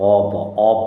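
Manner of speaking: of ending in a ব sound; teacher showing of said as "ob". Shown as a demonstration. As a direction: sound out অ ব, then blend it as "ob". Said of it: "যদিও এটা অ ব হবে".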